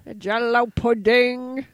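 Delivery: a weak stab at Bill Cosby; bad Bill Cosby. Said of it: "That was my Bill Cosby".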